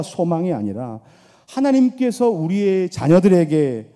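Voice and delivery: fervent sermon blessing; preaching blessing. Acted. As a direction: bless the mothers at full force.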